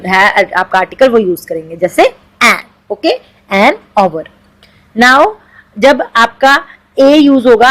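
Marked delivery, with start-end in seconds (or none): 3.5-4.2 "an our" starting on a vowel, no H; silent H. Shown as a demonstration. Teacher showing students the silent H in "our". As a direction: say "our" for hour with the H dropped. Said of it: "एच silent है तो sound कौन सी".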